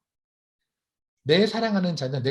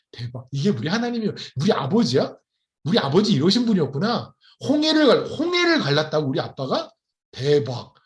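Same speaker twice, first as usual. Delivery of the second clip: put-on amazed child. Child amazed at father's stories.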